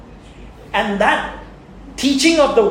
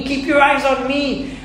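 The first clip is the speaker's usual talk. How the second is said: slower repeat; 7 semitones higher than usual. Retold or imitated. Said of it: "God is reminding us".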